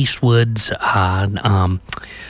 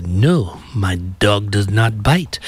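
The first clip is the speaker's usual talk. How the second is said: put-on slow, lightly accented movie character; measured mock-European reply, drawn-out words; hotel guest impression; slower than usual. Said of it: "the customer says".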